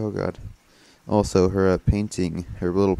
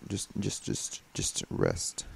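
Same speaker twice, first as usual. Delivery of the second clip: whispering; 7 dB quieter, slower than usual. Real, not acted. Urging character to rest.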